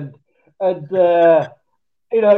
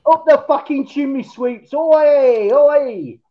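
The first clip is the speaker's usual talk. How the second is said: high, loud Cockney chimney-sweep call; exaggerated stage Cockney, slow and raised; mock Cockney accent; 5 semitones higher, 4 dB louder, much slower than usual. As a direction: ham up a Cockney "oi". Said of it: "I'm not a Cockney man".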